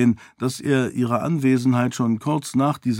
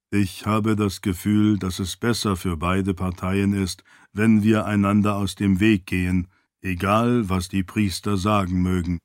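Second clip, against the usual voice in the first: composed, slightly lowered servant voice; lightly voiced loyal servant; 3 semitones lower than usual. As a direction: play a polite, measured attendant.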